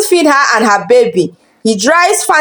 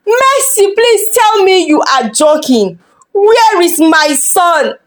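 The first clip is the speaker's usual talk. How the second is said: crying plea; 5 semitones higher than usual. Acted. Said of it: "He screamed, he cried".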